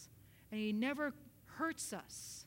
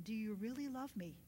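soft, lowered, intimate question; hushed, searching voice; gentle questioning; 3 semitones lower, 7 dB quieter than usual. Retold or imitated. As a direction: ask quietly, as God to a child. Repeats God's gentle question.

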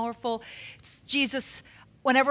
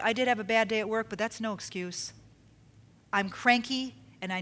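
honest admission; 3 semitones lower, 6 dB quieter than usual. Shown as a demonstration. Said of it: "say it like this".

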